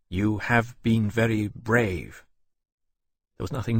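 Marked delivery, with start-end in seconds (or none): 0.1-2.2 slow, stiff, insincere praise; awkward. Acted. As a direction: force the words out without feeling. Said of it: "then added awkwardly".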